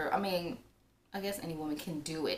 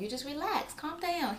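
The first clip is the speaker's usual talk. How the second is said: soothing; 9 semitones higher than usual. Retold or imitated. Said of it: "I kept telling him".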